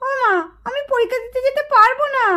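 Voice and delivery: whiny put-on sob to dodge the exam; half-crying plea, hamming up the misery; fake crying. Mithi begs her mother to skip the exam, mock crying.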